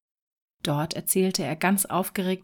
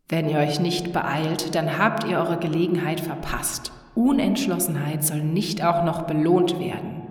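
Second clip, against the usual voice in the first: impatient genie; 2 semitones lower, 3 dB louder than usual. Acted. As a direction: hurry them up, losing patience. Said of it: "wurde etwas ungeduldig". (ungeduldiger Flaschengeist)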